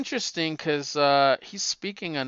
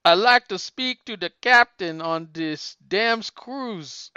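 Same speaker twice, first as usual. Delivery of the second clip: a hesitant try at a Jamaican accent, slow, higher and louder; 5 semitones higher, 5 dB louder, slower than usual. Shown as a demonstration. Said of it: "Now do it with the Jamaican accent".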